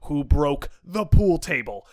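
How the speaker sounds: slow, measured imitation of pressing interrogator. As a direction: press the question slowly, still controlled. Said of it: "gets a little louder".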